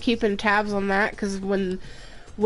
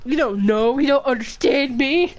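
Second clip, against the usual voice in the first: cat voice; 6 semitones higher, 6 dB louder than usual. Pretend. Voicing the cat yelling back.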